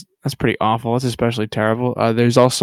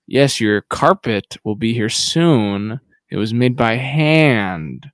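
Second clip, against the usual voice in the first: slow, deliberate coded message; code talk; slower than usual. Retold or imitated. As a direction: spell out the secret message slowly, like a spy. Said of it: "like, code talk".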